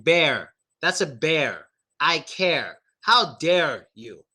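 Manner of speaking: "bear", "care", "dare" with full final R; tongue back, not touching, on "dare"; strong R. Shown as a demonstration. Teacher demonstrating tongue-back R, strongly sounded. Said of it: "It'll help the R sound come out more".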